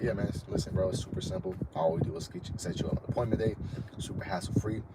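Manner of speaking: easygoing, unhurried pitch to a client; calm confident closer; cool, calm, confident. Shown as a demonstration. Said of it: "Cool, calm, confident".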